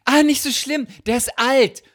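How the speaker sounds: high, squeaky embarrassed excuse; awkward excuse. Retold or imitated. Excusing the dropped underwear to the women, high and awkward. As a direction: laugh it off nervously, pitched high.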